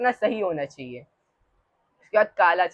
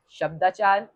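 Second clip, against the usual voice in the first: leader's rising call word; call for repetition. Shown as a demonstration. Teacher calls out the term for the class to repeat. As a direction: say it clearly for the class to echo. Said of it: "सब repeat करें।".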